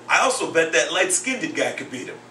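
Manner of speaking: "light-skinned" said with an extra syllable, skin-ded; inner-city kid's pronunciation. Retold or imitated. Inner-city second grader bets on another boxer, "light-skinned" as skin-ded. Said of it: "speaks a little bit differently than I do".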